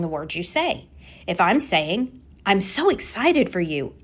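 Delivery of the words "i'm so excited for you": lively, believable excitement for someone; sounding excited. Shown as a demonstration. Coach showing how congruent words sound, excited. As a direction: let the excitement match the words. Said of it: "should sound like I'm excited".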